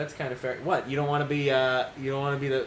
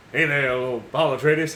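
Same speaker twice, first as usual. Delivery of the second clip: slow, lower sly greeting; mock friendly greeting; 3 semitones lower than usual. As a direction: drawl it out like a sneaky villain. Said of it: "You wanna walk up and be like".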